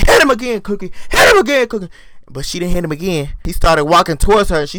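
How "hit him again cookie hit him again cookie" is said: cheering her on. Real, not acted. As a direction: yell at the screen like a fan. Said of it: "And I said".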